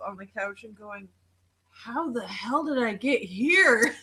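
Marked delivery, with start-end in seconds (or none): 1.7-4.0 slow, amused mock bewilderment; retold bewilderment. Friend retelling waking up on the couch, mock bewildered. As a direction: draw it out, baffled, with a laugh behind it.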